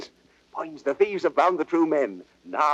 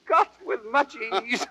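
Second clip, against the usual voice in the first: laughing gloat; 3 semitones higher than usual. Acted. Prince gloats after the prank.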